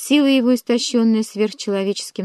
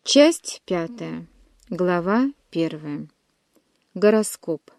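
chapter heading; 3 semitones lower, much slower than usual. A narrator's reading.

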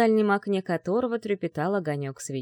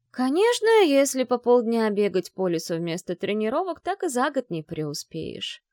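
drawling; 4 semitones higher, 3 dB louder than usual. Acted. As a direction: drag it out to needle her. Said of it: "протянула ей его Корви".

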